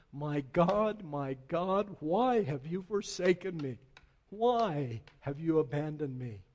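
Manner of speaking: loud preached cry of anguish, in mock agony; retold cry of agony. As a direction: cry out the forsaken words as the preacher retelling. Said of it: "he cried out in his agony".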